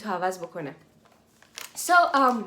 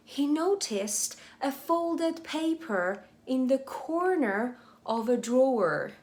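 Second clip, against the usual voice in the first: slow reading; 2 semitones higher, much slower than usual. Shown as a demonstration. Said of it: "slow English read-aloud for learners".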